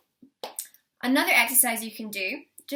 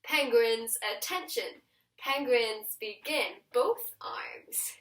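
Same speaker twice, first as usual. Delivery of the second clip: penguin commander call; much slower than usual. Shown as a demonstration. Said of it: "And then we go".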